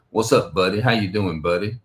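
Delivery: a light hint of a cheery, square greeting; mild white-guy voice. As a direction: greet him like a polite neighbor, only lightly put on. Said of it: "that's how they speak".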